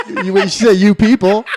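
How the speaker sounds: slow words through laughter; laughing. Real, not acted. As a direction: laugh while you say it. Laughing at the remark.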